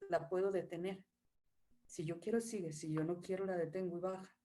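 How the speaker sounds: quietly holding the feeling, then letting it drop; inward, quiet. Shown as a demonstration. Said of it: "fíjate qué empieza a pasarme aquí".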